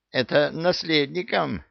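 strained, panting push on the words; puffing with effort. A narrator's reading. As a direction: gasp it out mid-tug, straining. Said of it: "пропыхтел эмир".

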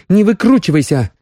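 angry. A narrator's reading. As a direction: stop his wriggling, annoyed. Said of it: "сердито сказала Соня". (сердито, резко и выше)

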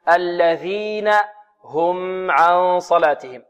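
slow, measured tajweed recitation; Quran recitation. Shown as a demonstration. Teacher modelling the verse for students, measured recitation. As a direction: recite it slowly with drawn-out long vowels.

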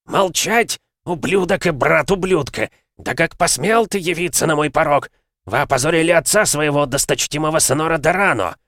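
high, loud furious tirade. A narrator's reading. Lord berating guest on his threshold, furious tirade. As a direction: rage at the intruder.

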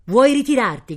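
high, loud incredulous question; shouted challenge. A narrator's reading. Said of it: "gridò il conde". (domanda gridata)

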